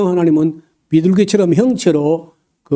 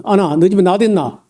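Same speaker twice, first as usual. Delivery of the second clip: Gyeongsang bluntness; 2 semitones higher, faster than usual. Retold or imitated. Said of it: "경상도 사람은 본론부터 말해요".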